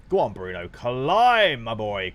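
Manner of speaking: real fan shout of encouragement; cheering. Real, not acted. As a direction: egg your player on. Cheering his player's score up.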